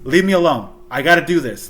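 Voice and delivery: half-shouting leave me alone, retold; retold brush-off. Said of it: "I'm like".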